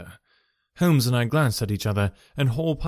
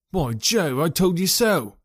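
excited cry; 5 semitones higher, slower than usual. A narrator's reading. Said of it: "cried the clerk".

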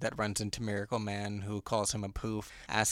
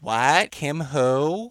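loud, rising shocked question; startled shout; 5 semitones higher, 9 dB louder, much slower than usual. Retold or imitated. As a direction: blurt it out in disbelief. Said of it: "the reception is like".

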